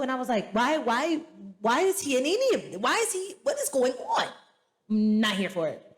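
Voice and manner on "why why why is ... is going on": baffled. Retold or imitated. Baffled by a DJ's cameo.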